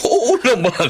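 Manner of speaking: high, delighted yes through a laugh; laughing, pleased yes; laughing agreement. Acted. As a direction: agree happily while chuckling. Father laughs happily at agreement.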